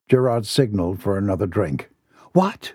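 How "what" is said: sharp high startled what; a woman's voice jumps high in alarm; voice pitching up. A narrator's reading. Woman startled by betrayal, pitched high alarm. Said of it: "Her voice pitched".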